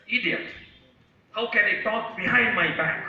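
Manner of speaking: high-pitched acted scolding; storyteller's angry little boy. Little boy scolds the voice behind his back, very angry. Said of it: "very angry".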